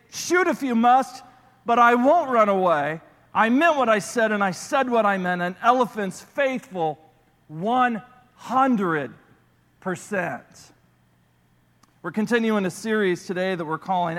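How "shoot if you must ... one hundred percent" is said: stare down the hunters and refuse; defiant Horton. Acted. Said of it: "looked at the hunters as much as to say".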